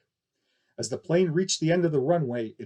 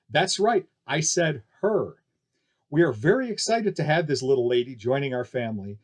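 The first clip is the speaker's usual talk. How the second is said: circus barker; 3 dB louder than usual. Acted. Barker announcing to crowd.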